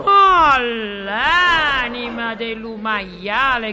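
loud outraged curse; explosive Italian cursing. Acted. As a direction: blurt the oath out in shock. Outraged comic exclamation.

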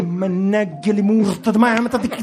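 cursing. Acted. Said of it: "Stia calmo".

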